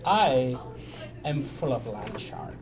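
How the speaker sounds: slow, lightly voiced pirate; a hint of pirate, drawn out. Player confessing he is full of land shark, lightly voiced pirate. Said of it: "Now he sounds like a pirate".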